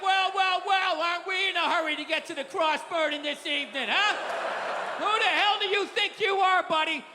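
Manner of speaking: a hint of a smug, sneering highway cop; lightly voiced cop. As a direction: needle the driver like a smug cop. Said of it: "the cop would be coming up like".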